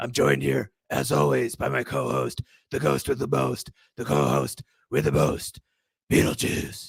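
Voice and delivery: loud, gravelly masked hero voice. Host introducing the co-host at the show's start, in a gravelly masked hero voice. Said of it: "should we get out of our gravelly voices".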